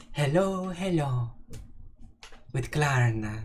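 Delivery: put-on lightly sung Swedish accent hello; mock Swedish accent. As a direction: play a bouncy Swedish greeting. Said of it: "my Swedish accent".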